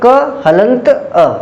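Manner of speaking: slow, deliberate teacher's spelling-out. Shown as a demonstration. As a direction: lay out each sound slowly for the class. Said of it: "तो क को तोड़ेंगे तो क्या हो जाएगा?". (धीरे-धीरे अक्षर अलग करके बोलना)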